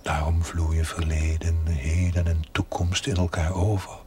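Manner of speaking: a hushed voiceless explanation; whispering. Acted. Ghostly voice whispering about eternity to the chaplain. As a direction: whisper it like a voice from beyond.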